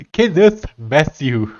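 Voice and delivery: slow careful Afrikaans-accented Kenneth Matthew. Real, not acted. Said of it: "My mouth and my nose doesn't want to say it".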